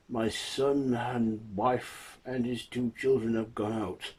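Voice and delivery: a hint of a helpless old father; blind old man. Blind man answers debt collector.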